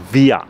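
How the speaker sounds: via with the r softened to a; silent final r. Shown as a demonstration. Teacher repeating the German word for we, silent final r. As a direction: say via short, without sounding the r. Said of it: "আর এর উচ্চারণটা হয়েও হবে না".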